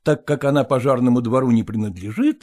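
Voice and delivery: ordinary delivery, nothing marked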